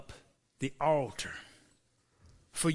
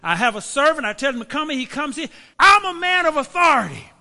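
commanding Roman officer, louder and higher; proud centurion; 4 semitones higher, 9 dB louder than usual. Acted. Preacher voicing the centurion speaking of his authority, commanding.

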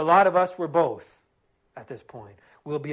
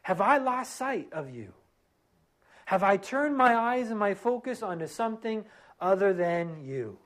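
model prayer; 3 semitones higher than usual. Pretend. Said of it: "go before him and say".

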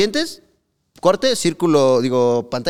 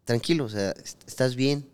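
calm soothing voice; 5 dB quieter than usual. Retold or imitated. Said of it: "era como de".

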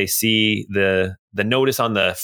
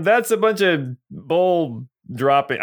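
crowd grumble; 4 semitones higher, slower than usual. Acted. GM crowd voice again.

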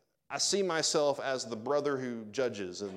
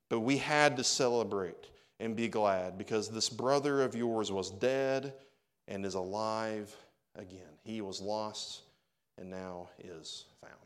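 tender, fading; slower than usual. Acted. Father's words fading softly.

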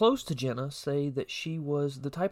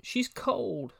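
retold yell; 8 semitones higher than usual. Boyfriend in back of emergency call, restrained retold yell. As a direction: raise the pitch as if calling from the back. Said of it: "yell out".

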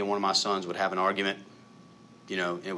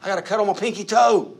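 milk a tiny cut like a big injury; mock pain; 10 semitones higher, 9 dB louder than usual. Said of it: "And you're like".

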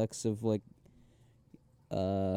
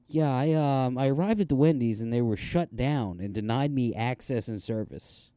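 higher, stiff and proper; prim formal voice; 4 semitones higher, 3 dB louder than usual. Retold or imitated. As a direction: play it overly formal and correct. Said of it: "to being like".

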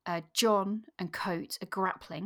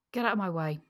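fierce. Acted. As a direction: shove the words at him fiercely. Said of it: "Stogumber said fiercely".

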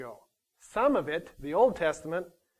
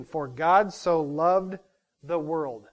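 For God so loved said slowly and weighed; slow scripture reading; slower than usual. Shown as a demonstration. Preacher reads the verse slowly to the congregation. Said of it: "Now the word "for".

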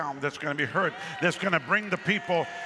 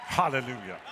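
a full-voiced cry of praise; shouted hallelujah; 3 semitones lower than usual. Real, not acted. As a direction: call it out to the congregation. Preacher opens with exclamation.

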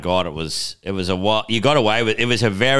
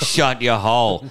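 slow, half-hearted imitation of yelling; mock yell; 2 semitones higher, slower than usual. Comic telling the MC off, mock yell. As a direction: draw out a mild mock yell. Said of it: "you yelled at Gordon Southern".

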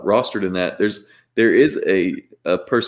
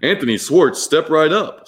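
flirty teasing dating host; 4 semitones higher, slower than usual. Acted. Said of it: "contestant number one".

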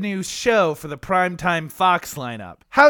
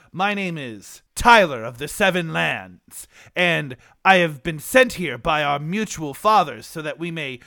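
medieval suitor. Acted. Switched back to suitor.

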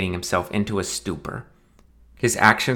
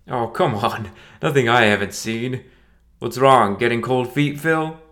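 laughing teasing; 3 semitones higher than usual. Acted. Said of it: "he laughed".

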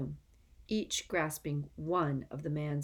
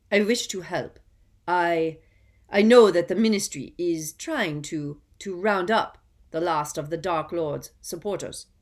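louder, nervous, fawning plea; scared, unctuous; 8 dB louder than usual. A narrator's reading. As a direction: plead eagerly, voice faltering. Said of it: "his voice was very scared".

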